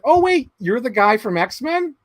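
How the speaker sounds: high, slow sister realizing; lightly voiced sister catching on; sister's voice. Sister voiced meeting actor.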